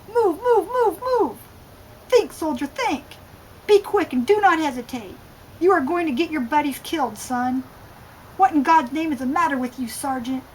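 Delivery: high-pitched drill yell, barked orders; shouting colonel. Acted. Colonel in a flashback screaming at his soldier, furious high yell. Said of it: "Colonel Pickard was shouting at me now, screaming".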